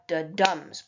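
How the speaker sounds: "da-dums" with a light "da" and a stressed "dums"; iambic rhythm. Shown as a demonstration. Teacher describing five pairs per line, soft-then-hard stress. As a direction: hit "dums" harder, like a heartbeat. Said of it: "a soft beat followed by a hard".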